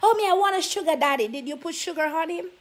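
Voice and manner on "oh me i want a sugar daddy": fast mocking voice of a woman, a bit higher; mock girly whine. Preacher mocking women who want sugar daddies, fast and higher. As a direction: rattle it off mocking a woman's wish.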